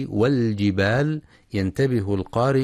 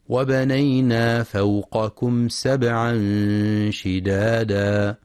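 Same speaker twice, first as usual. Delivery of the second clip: slow, drawn tajweed chant; Quran recitation; slower than usual. Shown as a demonstration. Teacher recites the verse for students, slow chant. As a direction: stretch شدادا out long.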